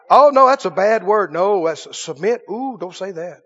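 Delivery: mock prissy horror. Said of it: "people think that's a cuss word".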